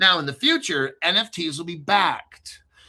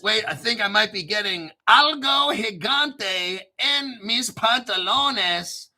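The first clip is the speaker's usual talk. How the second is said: excited joking shout; 3 semitones higher than usual. Real, not acted. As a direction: shout the joke like a cheeky tease. Joking Spanish about his pants.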